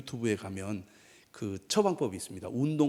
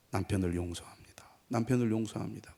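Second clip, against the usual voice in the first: soft, lowered murmur; subdued private confession, said twice; quiet prayer; 2 semitones lower, 5 dB quieter than usual. Retold or imitated. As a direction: pray it gently to yourself. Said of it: "그렇게 조용히 기도를 하니까".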